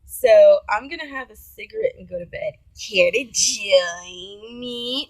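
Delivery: lightly mocked goth Victorian gentleman, drawn out at the end. Date inviting her to bed, lightly mocked Victorian gentleman. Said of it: "like, a goth Victorian gentleman".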